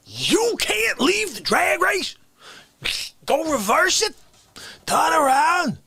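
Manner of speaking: incredulous rant. Acted.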